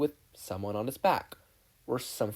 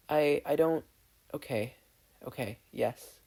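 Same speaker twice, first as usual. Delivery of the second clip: put-on hesitant boy; 3 semitones higher than usual. Steven accepting Connie's offer, hesitant.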